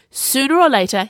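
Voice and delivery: high, loud, lofty certainty; haughty. A narrator's reading. Viola predicting to Sage, haughty. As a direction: pronounce it with superiority. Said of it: "she said haughtily".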